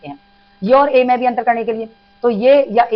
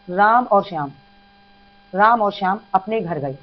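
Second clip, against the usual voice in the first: slow, careful reading of the example; slow example sentence; 2 semitones lower, slower than usual. Shown as a demonstration. Teacher reads the example slowly to students. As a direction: lay out each word slowly. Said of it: "इस तरह से राम और श्याम कह सकते हैं".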